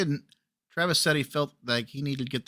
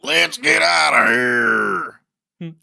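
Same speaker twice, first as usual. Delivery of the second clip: screaming; 7 dB louder than usual. Retold or imitated. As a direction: scream to get out. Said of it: "Dwayne then screamed".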